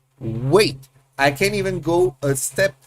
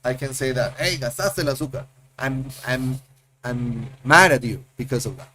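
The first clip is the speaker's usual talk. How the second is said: mock scolding; 2 semitones lower than usual. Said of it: "to be like".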